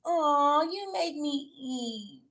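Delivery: slow, cartoon fish voice; Nemo voice. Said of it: "From, um, the Nemo".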